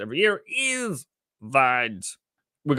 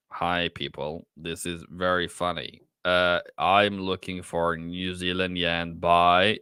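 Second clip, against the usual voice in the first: lightly voiced serious presenter, a bit lower; trying a new voice; 4 semitones lower than usual. Trader testing a new lower voice on his stream chat. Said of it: "trying to find my new voice".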